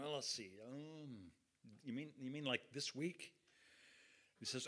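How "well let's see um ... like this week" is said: halting, softer, searching for an answer; stammering stall. Retold or imitated. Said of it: "I pause and stammer around".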